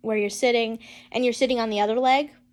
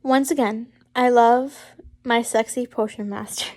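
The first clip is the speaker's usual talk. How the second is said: a grin in the voice; can't keep a straight face; said with a smile. Real, not acted. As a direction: read the line half-laughing. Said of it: "Can you not say that with a smile".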